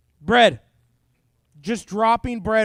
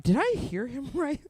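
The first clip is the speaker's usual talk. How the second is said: laughing disbelief; 4 semitones higher, 5 dB quieter than usual. Pretend. Imagining disbelief at God's command.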